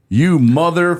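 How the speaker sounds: high, loud outburst of cursing; re-enacted yell. Podcaster re-enacting yelling at the email, furious. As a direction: yell it out, cut off for the bleep. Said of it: "So I yelled, top of my lungs".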